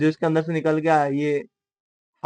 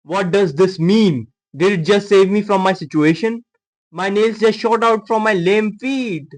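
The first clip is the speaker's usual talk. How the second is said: bewildered anime monologue; 3 semitones higher, 5 dB louder, much slower than usual. Acted. Dubs character's bewildered monologue.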